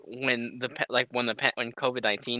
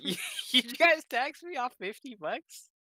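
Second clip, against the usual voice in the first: slow, much higher and in a put-on voice, disbelieving; mock indignant; 12 semitones higher, slower than usual. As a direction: drag it out like you can't believe they taxed it. Retold complaint about taxed paycheck.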